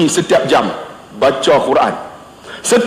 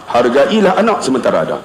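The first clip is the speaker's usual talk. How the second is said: lowered, measured advice; low tone; 8 semitones lower than usual. Retold or imitated. Principal repeating advice on children, low tone. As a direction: say it low and unhurried. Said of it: "dia nada rendah".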